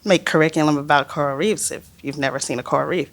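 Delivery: Armour. Retold or imitated. Remembered boss's voice nagging on the boat, lightly imitated. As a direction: recite the warning in a hint of a boss's voice. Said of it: "I hear Armour's voice".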